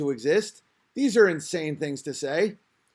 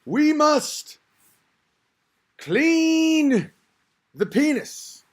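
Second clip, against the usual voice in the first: Farrakhan sermon voice; 7 semitones higher, much slower than usual. Retold or imitated. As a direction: preach it with full pulpit gravity. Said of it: "Farrakhan could literally be like".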